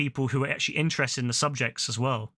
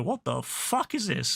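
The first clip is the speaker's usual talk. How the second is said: drawling Texan; slower than usual. Retold or imitated. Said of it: "Probably in a real American accent".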